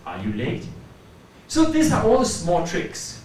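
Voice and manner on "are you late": lower-pitched question rising on LATE; simple rise. Shown as a demonstration. Teacher simply standing up to ask, rising question. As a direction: start low and let "late" rise. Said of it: "I'm just simply doing this".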